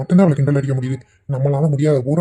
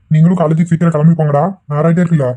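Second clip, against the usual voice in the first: put-on louder, urging the boys to hurry; raised voice; 6 dB louder than usual. Father pushing his sons to leave for college, loud. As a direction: hustle them out the door loudly.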